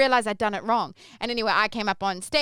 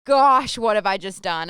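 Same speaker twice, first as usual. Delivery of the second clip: panicked realization; 2 semitones higher, 8 dB louder, much slower than usual. Retold or imitated. Realizing her mistake onstage.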